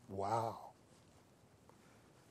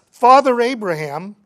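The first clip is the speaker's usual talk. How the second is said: loud, higher-pitched plea; acted cry for help across a distance; 5 semitones higher, 9 dB louder than usual. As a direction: call out loudly for mercy. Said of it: "So he cries out and says".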